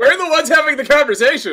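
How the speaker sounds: very loud, high, exasperated yelling. On the show, asked if they're shouting at listeners, the speaker shouts at the other host. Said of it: "I'm shouting at you".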